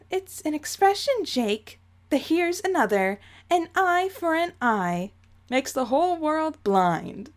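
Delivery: lightly voiced prim, impatient matriarch; a hint of condescending Umbridge; Jane voice. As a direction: correct him in an affected ladylike voice. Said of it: "my Jane voice is slowly turning into Dolores Umbridge".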